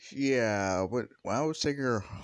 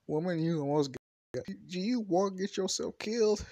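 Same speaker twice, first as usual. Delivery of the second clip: Deku scolding; 9 semitones higher than usual. Acted. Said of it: "and Deku's like".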